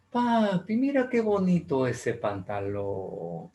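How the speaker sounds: put-on child sweet-talking father; pleading child. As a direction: coax dad sweetly.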